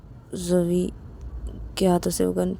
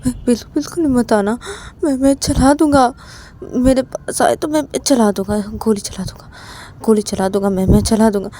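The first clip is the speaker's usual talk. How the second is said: 1 threatening warning; 3 semitones lower than usual. Acted. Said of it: "तो तभी रवि बोलता है कि".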